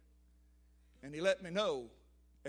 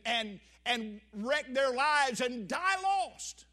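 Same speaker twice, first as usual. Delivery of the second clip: higher, louder, slowing at the end; earnest warning; 4 semitones higher, 6 dB louder than usual. Retold or imitated. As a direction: lay it out gravely, leaning on the last words. Retells what he told wife.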